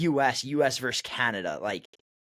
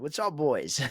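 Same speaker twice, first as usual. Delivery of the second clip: put-on Massachusetts accent; slower than usual. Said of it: "in his Massachusetts accent".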